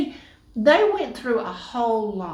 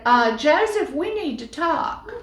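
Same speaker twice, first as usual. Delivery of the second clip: serious wife; 5 semitones higher than usual. Acted. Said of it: "and she said".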